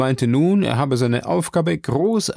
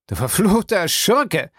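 relieved shout; 6 semitones higher than usual. Acted. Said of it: "schrie Legrand erleichtert".

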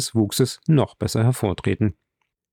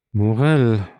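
mildly astonished, without dropping the volume; astonished murmur. A narrator's reading. Host hears an unknown guest's name, mildly astonished. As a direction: echo the name in understated surprise. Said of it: "murmelte Albert erstaunt".

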